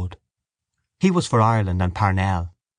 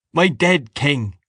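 slow, raised lament; bitter grieving cry; 5 semitones higher, slower than usual. A narrator's reading. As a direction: mourn aloud, drawing out each word. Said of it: "He sobbed loudly and bitterly".

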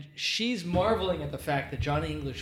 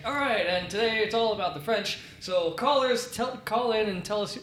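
mock radio announcer; 3 semitones higher than usual. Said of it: "the radio announcer is saying".

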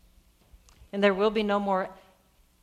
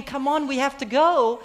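higher, louder urging; Jairus; 4 semitones higher, 5 dB louder than usual. Acted. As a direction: press them impatiently to leave. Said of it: "of saying".

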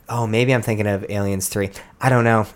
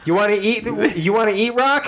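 wrestler promo voice; 9 semitones higher than usual. Acted.

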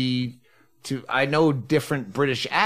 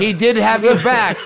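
laughing; 6 semitones higher, 7 dB louder than usual. Real, not acted. Teasing, laughing.

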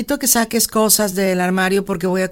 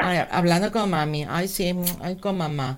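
mocking taunt; 4 semitones lower, 10 dB quieter than usual. Rival mocks her calling mom.

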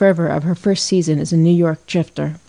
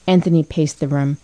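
plain reading voice

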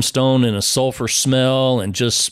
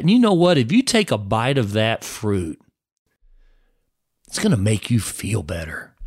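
lightly voiced tempter, coaxing; a hint of the serpent sweet-talking; tempter's coax. Preacher as the tempter urging a bite of fruit, coaxing.

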